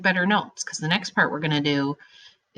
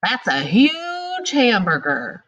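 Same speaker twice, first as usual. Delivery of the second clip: excited exclamation; 5 semitones higher, 3 dB louder, slower than usual. Shown as a demonstration. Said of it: "That means you're yelling".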